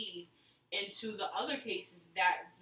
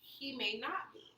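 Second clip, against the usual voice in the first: put-on Valley Girl voice. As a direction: draw it out like a Valley Girl confiding. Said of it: "You're not gonna do your Valley Girl voice?".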